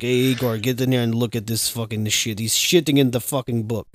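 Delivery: put-on a light, half-hearted Russian accent. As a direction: put on a mild Russian accent as a drunk researcher. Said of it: "That was Russian".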